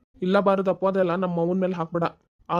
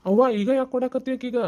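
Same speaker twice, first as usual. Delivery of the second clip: higher-pitched protest; startled objection; 5 semitones higher than usual. Acted. Son questions mother handing over gold, protesting. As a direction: object in surprise, voice raised in pitch.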